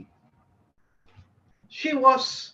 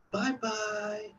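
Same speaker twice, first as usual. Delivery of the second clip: softer, sad little goodbye; sad farewell; 9 dB quieter than usual. Retold or imitated. Ghost lady saying goodbye to the departing guest, soft sad farewell. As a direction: let it fade away wistfully. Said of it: "It was rather sad".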